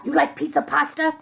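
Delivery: fast playful chef asking; quick chef puppet voice. Acted. Chef puppet asking kids about pizza, lightly voiced. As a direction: rattle it off like a chef.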